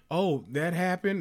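"Oh, that happened?" in mock questioning tone; questioning repeat. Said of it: "says it as a question".

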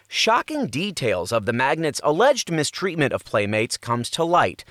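dramatic teaser read with rising hype; tabloid tv host. Acted. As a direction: sell the scandal like a TV promo. Promo read for docuseries.

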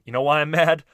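imitated anger heating up, punching the swearing; rising temper. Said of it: "you see the temperature rising".

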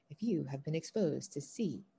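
slow, measured imitation of a phone recording; automated recording. Caller imitating the doctor's office recording, slow and automated. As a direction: spell it out like an automatic message. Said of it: "like, automatic recordings".

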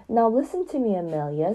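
stern. Acted. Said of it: "said Tom sternly".

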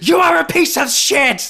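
high, loud, fast mock tirade; over-the-top imitation of furious yelling. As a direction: scream the insult as a hammed-up rant. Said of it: "it's yelled".

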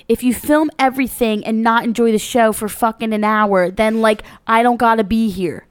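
put-on reading in a South Jersey accent. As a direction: channel a South Jersey comic. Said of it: "your South Jersey accent in that reading".

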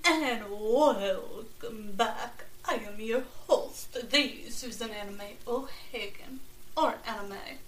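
slow, drawn-out vampire host; lightly voiced spooky vampire. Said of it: "talk like this ... To sound like a vampire".

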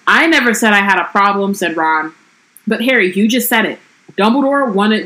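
lightly voiced book reading of Ron and Hermione; story reading. A narrator's reading. Podcaster reading the book passage to her co-host, lightly voiced. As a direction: read the quarrel out, evenly.

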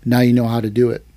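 slightly low, matter-of-fact retold verdict; deadpan. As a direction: imitate an unmoved sensei. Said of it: "Sensei deadpan looks at me".

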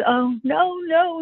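a high, mild retold wail; codependent mother. Mother reacting to her bleeding husband, mildly distraught imitation. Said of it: "a classic codependent".

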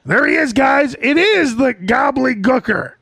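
stagey announcer's reveal; Vince. Acted. Vince announcing the gobbledygooker, mock announcer call. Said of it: "Vince knows, like".

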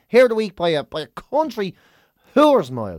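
hammed-up Dublin flourish; mock emphatic. Shown as a demonstration. Host crowning the hero of the week, hammed up. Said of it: "Hero of the Week by a, by a country mile".

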